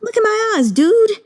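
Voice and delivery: begging him to believe he's beautiful; earnest declaration. Retold or imitated. Morjan insisting to Chuwaneng he is beautiful, high and impassioned. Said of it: "And Morjan's like".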